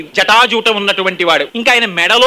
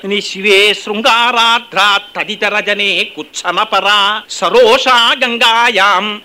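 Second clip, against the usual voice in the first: slow chant slowing further at the end; sloka recitation; 2 semitones lower, much slower than usual. Acted. Preacher quoting the verse, slow chant. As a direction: draw the final words out.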